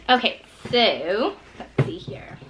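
slow ASMR whisper. Acted. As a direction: breathe it out slowly. We got some A S M R for you guys.

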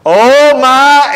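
high mock cry, cut short; acted cry of alarm; imitated screaming. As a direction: start a pretend panicked wail. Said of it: "they're screaming and crying out".

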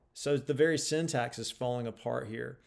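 ordinary delivery

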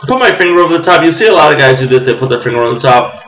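talking around pipe stem; pipe in mouth. Real, not acted. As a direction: lips clenched on pipe. Seen 2: Pipe stem clenched in mouth while talking; briefly out ~1.7-2.4s.

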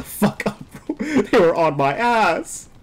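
exasperated yell. Real, not acted. Gamer complaining about opponents crowding him, exasperated yell. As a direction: yell it and stretch the ending.

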